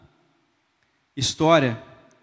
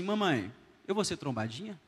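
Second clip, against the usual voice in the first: put-on tearful boy; 6 dB quieter than usual. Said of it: "Ele falou assim".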